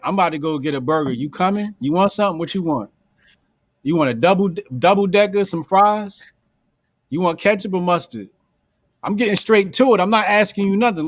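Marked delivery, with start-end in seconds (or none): 0.0-8.3 casual offhand invite. Shown as a demonstration. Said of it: "That's how I'm saying it".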